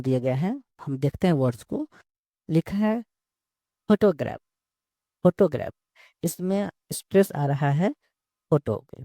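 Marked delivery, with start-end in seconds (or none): 3.9-4.4 "फोटोग्राफ" with the stress on फो; stress on first syllable. Shown as a demonstration. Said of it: "वो आ रहा है फो पर". 5.2-5.7 "फोटोग्राफ" with the stress on फो; stress on first syllable. Shown as a demonstration. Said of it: "फो पर".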